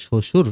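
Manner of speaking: শ্বশুর said as shoshur, the ব silent; শ্বশুর spoken shoshur with no b sound at all; Bengali pronunciation demo. Shown as a demonstration. Teacher shows students how the spelling sounds: শ্বশুর said shoshur, no b. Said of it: "উচ্চারণ করলে".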